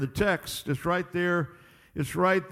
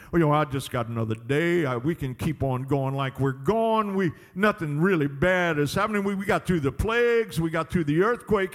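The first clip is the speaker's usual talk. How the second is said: lower, offhand voice of someone shrugging off warnings; complacent excuse-maker; 3 semitones lower than usual. Acted. Preacher mimicking a person ignoring the warning, casual complacency. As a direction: shrug it all off.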